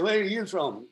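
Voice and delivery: lightly put-on Geordie challenge; Geordie accent. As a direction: imitate a Geordie boss demanding an answer. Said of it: "his big Geordie accent".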